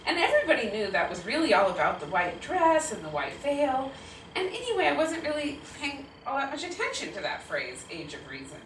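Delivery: measured, storytelling read-aloud; story narration. A narrator's reading. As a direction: narrate a childhood memory to an audience. Narrates between quotes.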